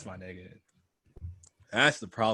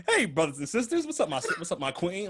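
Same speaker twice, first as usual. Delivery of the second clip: higher, hammed-up smooth hello; playful mock-charmer voice; weird put-on greeting; 7 semitones higher than usual. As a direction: greet the crowd in a silly new persona. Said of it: "why are you talking like".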